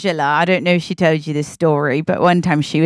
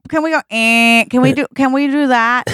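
put-on drunken pleading; 7 semitones higher than usual. Drunk guests begging the captain to steer the ship, pleading.

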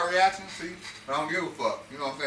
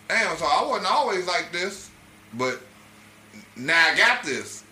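retold self-defense; 4 dB louder, slower than usual. Acts out comedian's line, slowly.

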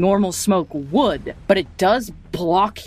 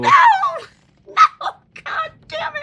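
dismayed cry; 4 dB louder than usual. Real, not acted. GM dismayed at player's move.

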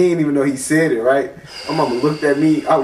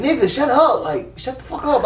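retold snapping; 8 semitones higher than usual. Retold snapping at little brother.

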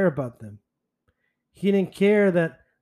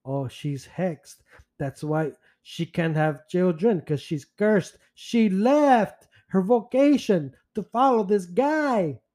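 mocking Father Bing. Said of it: "And then we have here Father Bing".

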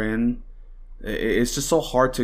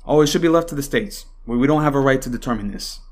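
sarcastic mimicry; 3 semitones higher, 4 dB louder than usual. Mocking politicians' excuse again.

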